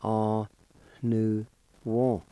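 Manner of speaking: O, nu, Won said slowly and separately; Cherokee syllables. Shown as a demonstration. Teacher sounding out the first part of garment. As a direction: model O, nu, Won. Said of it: "First part is pronounced like this".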